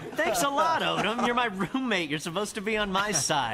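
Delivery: mock indignant. Complaining to his roommate.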